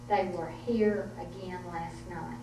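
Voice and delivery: a hint of a grave mountain woman, understated; stoic mountain grandmother. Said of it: "stoic woman of the mountains".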